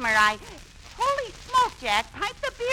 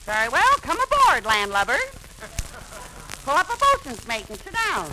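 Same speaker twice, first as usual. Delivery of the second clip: blustery admiral. Pretend. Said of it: "it's Admiral Davis to you".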